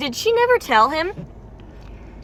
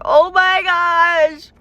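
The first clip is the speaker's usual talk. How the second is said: breathless, slow gasp of words; out of breath sighing it; 5 semitones higher, 3 dB louder, much slower than usual. Real, not acted. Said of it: "Y'all, I'm so out of breath".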